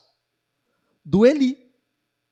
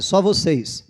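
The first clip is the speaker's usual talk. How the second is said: normal talking voice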